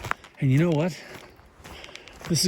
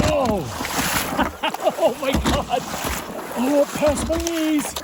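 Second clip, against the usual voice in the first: shrieking; 9 semitones higher, much slower than usual. Real, not acted. Water deeper than expected.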